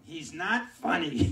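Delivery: put-on slow, loud, drawn-out old lady; old lady on phone. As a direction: drag it out like a bored old woman. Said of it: "she's sitting there going".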